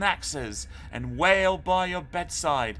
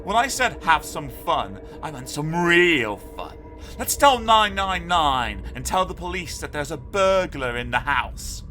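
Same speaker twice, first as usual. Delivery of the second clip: high, louder, eager scheming; scheming boy; 7 semitones higher, 7 dB louder than usual. A narrator's reading. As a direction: pitch a naughty plan with relish. Arthur proposes a prank call.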